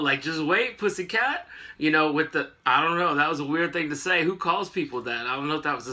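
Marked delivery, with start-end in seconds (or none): 0.2-1.5 sassy tease, rising at the end. Retold or imitated. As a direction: lilt up on the last word, sassy. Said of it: "sassy as hell".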